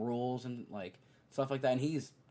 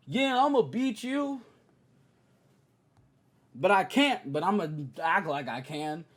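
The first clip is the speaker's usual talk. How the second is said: mock Paul George; 6 semitones higher, 6 dB louder than usual.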